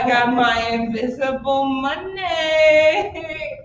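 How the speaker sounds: slow, drawn-out boast; showy customer. Acted. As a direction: stretch it out proudly, slowly. Improviser plays customer flourishing money.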